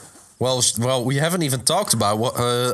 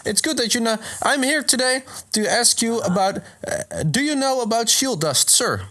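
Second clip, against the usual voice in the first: high-pitched polite creature voice; chirpy formal caller, pitched up; Venomoth; 11 semitones higher than usual. Acted. Moth Pokemon greets a man at his door, high voice. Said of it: "I am Venomoth".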